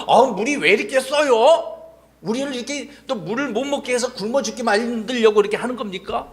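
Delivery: mock grumbling, stretched at the start; acted complaining. Israelites grumbling over bitter water, acted complaining. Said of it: "또 불평하기 시작해".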